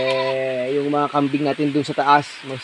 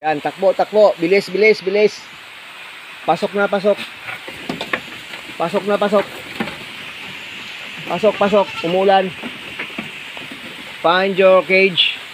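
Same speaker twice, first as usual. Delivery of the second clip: urging goats on; 4 semitones higher than usual. Real, not acted.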